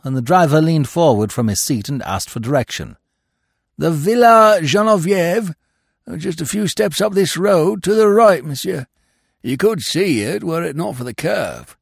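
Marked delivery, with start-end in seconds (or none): 3.8-11.8 high, louder voice of a country peasant; French peasant. Acted. Peasant to the chauffeur, a high, louder helpful voice. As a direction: answer the driver, helpful and high.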